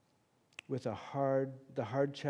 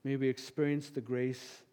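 closing prayer. Real, not acted.

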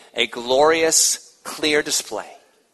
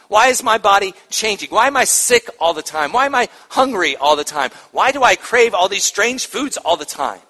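confused pregnant woman; 4 semitones higher, 4 dB louder than usual. Retold or imitated.

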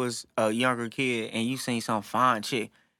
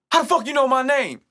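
higher, louder mock outrage; imitating the father's angry demand; mock angry dad; 10 semitones higher, 4 dB louder than usual. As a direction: play the furious dad, higher. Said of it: "he was angry".

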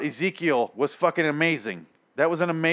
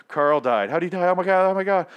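imitated shocked reaction, rising higher; mock panic; 5 semitones higher, 4 dB louder than usual. Reviewer voicing characters learning of Carl's death, mock panic. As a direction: act out a frantic reaction to bad news.

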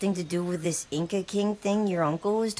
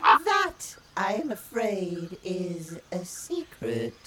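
secretive bird voice; much slower than usual. Acted. Blackbird guards secret.

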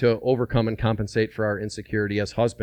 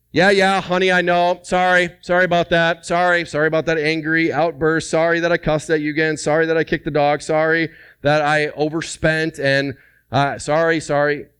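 higher, louder, rattled-off sorries to the wife; imitating a husband's hollow "sorry, sorry"; mock careless apology; 4 semitones higher, 4 dB louder than usual. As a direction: brush it off like a husband who doesn't mean it. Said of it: "it doesn't sound like sorry".

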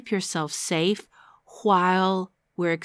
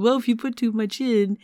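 lightly imitated talking to a seven-year-old; a hint of coaxing a small child; explaining to a child; 3 semitones higher than usual. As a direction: gently reason with a little kid. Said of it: "like you would a seven-year-old".

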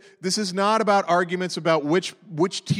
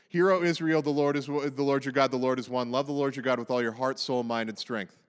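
prayer recitation; 4 semitones lower than usual. Shown as a demonstration. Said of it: "It's the".

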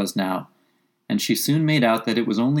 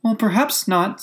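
high-pitched placating Alice; soothing; 10 semitones higher than usual. A narrator's reading. Alice calms the angry mouse, soothing tone. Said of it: "in a soothing tone".

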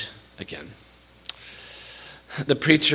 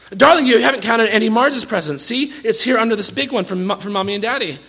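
higher, sugary coaxing mother voice; a mother soothing her son over his presents, higher and coaxing; doting mother; 8 semitones higher, 4 dB louder than usual. Acted. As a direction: coo at the spoiled boy to head off a tantrum. Aunt coaxes spoiled son.

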